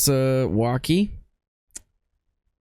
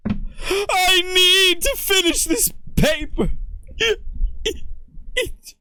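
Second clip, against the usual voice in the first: prissy gentleman voice; slower than usual. Acted. Same Stickler character voice.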